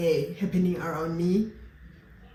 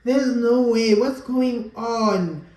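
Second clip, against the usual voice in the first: retold disbelief; 4 semitones higher, 5 dB louder, much slower than usual. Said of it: "I was just like".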